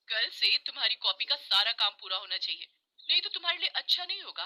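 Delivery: stern warning. Acted. Teacher warns Kosi about tomorrow's homework, stern. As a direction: lay down a firm threat. Teacher threatens after beating.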